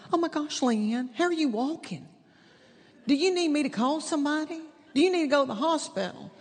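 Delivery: lightly voiced friend, worried and hurrying; alarmed friend. Friend Jeannie alarmed at how she walks in, mildly panicky.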